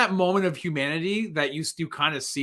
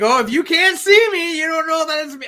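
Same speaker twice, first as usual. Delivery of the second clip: higher, louder, hammed-up drunk reasoning; mock drunk Plainview; 12 semitones higher, 8 dB louder than usual. Drunk Plainview under the cloth, hammed-up and higher. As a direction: play the drunk who thinks he's hidden.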